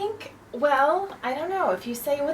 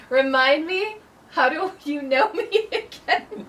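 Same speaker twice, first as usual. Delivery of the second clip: mock polite question; 3 semitones higher than usual. Shown as a demonstration. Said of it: "do it for real".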